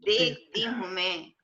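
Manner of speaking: poetry reading at a mushaira; ghazal recitation. Acted. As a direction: recite it as an Urdu couplet, lingering on the refrain.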